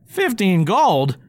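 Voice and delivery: high slow gleeful disbelief; delighted goblin. Acted. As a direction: savour the reward. Goblin reacts to reward.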